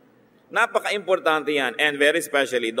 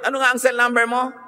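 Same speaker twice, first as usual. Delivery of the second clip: mock pushy asker; 8 semitones higher, 3 dB louder, faster than usual. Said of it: "Huwag na huwag kayo magtatanong".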